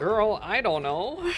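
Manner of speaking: sassy drawl. Real, not acted. Sassy reply to game character.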